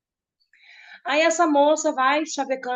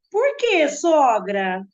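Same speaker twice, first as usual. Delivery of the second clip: mocking; 3 dB louder, much slower than usual. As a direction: needle the mother-in-law with a smirk. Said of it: "toda debochada".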